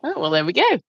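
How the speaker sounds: talking through a burp; words broken by a burp. Real, not acted. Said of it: "Pardon me, I'm burping".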